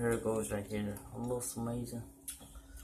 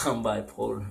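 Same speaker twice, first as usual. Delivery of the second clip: laughing; 6 dB louder than usual. Real, not acted. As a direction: joke said through a laugh. Repeats joke while laughing.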